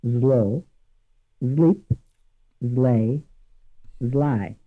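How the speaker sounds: Italian accent, S voiced to Z before L. Shown as a demonstration. Teacher demoing an Italian learner's English words, Italian accent. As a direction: zlo zlip zlej zlaj with an Italian Z for S. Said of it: "Listen again".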